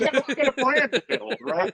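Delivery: playful laughing brag. Real, not acted. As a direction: laugh through the brand line. Laughing about his brand.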